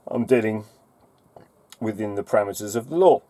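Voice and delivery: rushed to beat the next hiccup; fast, holding in hiccups; suppressing hiccups. Real, not acted. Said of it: "I've got hiccups again".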